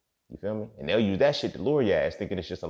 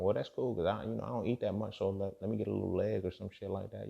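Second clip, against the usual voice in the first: a small eater politely asking for a leg; mock meek orca; 3 semitones higher, 6 dB quieter than usual. Second orca answering.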